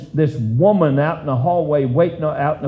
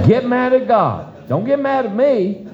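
emphatic preaching; 9 semitones higher than usual. Real, not acted. Preacher driving point home.

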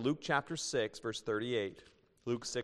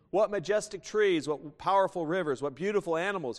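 awed admiration; 6 semitones higher, 5 dB louder than usual. Acted. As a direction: savour every wonder aloud. Atheist admiring nature in joke.

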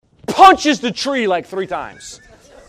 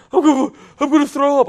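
higher, mock about-to-be-sick voice; mock queasy; 4 semitones higher, faster than usual. Preacher mimics friend after running laps, queasy. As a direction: imitate someone winded and ready to heave.

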